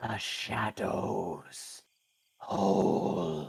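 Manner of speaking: raspy, disembodied voice seeming to come from nowhere. Game master voicing what the two players hear: disembodied rasping voice. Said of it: "a disembodied, rasping voice".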